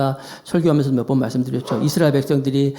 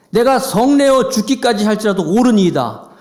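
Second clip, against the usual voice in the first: stubborn anger; 5 semitones higher, 4 dB louder than usual. Acted. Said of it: "계속 화내는 거야".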